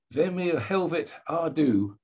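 put-on light Norwegian accent on a gruff question; a hint of a Norwegian accent, half-hearted imitation. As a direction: ask it like a startled Norwegian station manager in a Norwegian accent. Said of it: "in a Norwegian accent".

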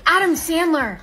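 excited guess. Acted. Gasps at a sudden guess.

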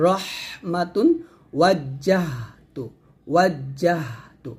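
রহমাতুন, ওয়াজ্জাহতু drawn out slowly with an airy "h"; light audible breath. Shown as a demonstration. Teacher showing how breath leaves on ha, light breathy h in রহমাতুন. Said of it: "হালকা করে বাতাস বের করছি".

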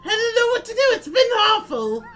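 Toad voice. Acted. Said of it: "I'm glad you all enjoy my Toad voice".

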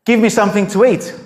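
flat blunt demand for food; just demand it, no niceties; the prophet bluntly asking the widow for food; blunt, plain demand. Retold or imitated. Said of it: "he says to her".

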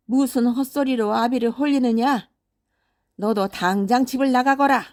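put-on storybook father banishing his child in fury; angry father scolding. Acted father scolding, banishing third son.

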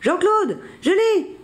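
very high, excited little cry; triumphant exclamation. A narrator's reading. Billy has lassoed the bison, exclaiming excitedly. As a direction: cry out your catch in triumph. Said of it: "s'exclame Billy".

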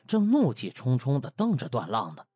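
ordinary delivery

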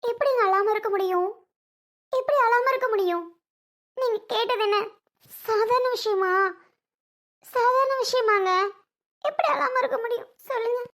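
crying protest. Acted. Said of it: "ஏம்மா அழுகுற?".

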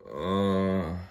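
a weary sick groan. Acted. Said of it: "groaned Thomas".

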